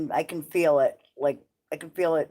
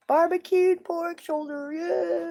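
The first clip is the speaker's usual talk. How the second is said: excited; 12 semitones higher, slower than usual. Real, not acted. Delighted echo of dinner plan.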